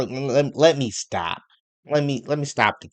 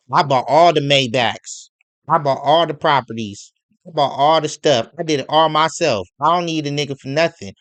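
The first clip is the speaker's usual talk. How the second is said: mock boastful ex-wife; 5 dB louder than usual. Mocking the ex-wife's boasts.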